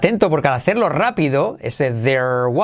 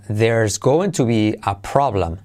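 slow demo; 5 semitones lower, slower than usual. Shown as a demonstration. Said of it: "Mírate que va a haber un problema".

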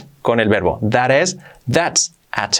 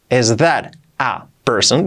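slow model; slower than usual. Shown as a demonstration. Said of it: "Dicho despacio".

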